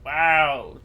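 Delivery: surprised wow. Real, not acted. Sudden view of huge underside.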